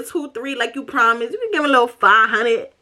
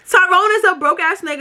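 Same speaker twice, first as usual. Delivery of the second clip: emphatic repeat; 7 semitones higher than usual. Real, not acted. Repeats insult, punching it harder.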